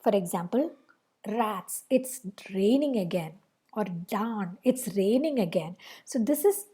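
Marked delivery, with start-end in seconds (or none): 1.3-3.3 a touch of resigned disappointment; mild disappointment. Shown as a demonstration. Teacher giving a rain example, mildly disappointed. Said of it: "mild interjections are set off". 3.8-5.8 understated, low-intensity disappointment; mild disappointment. Shown as a demonstration. Teacher giving a second rain example, mildly disappointed. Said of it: "an interjection which conveys disappointment".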